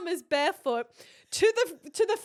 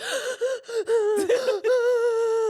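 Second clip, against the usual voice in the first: high, loud gasping sob; mock hyperventilating sob; sobbing gasps; 11 semitones higher, 8 dB louder than usual. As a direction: gasp for air between sobs. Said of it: "and she's like".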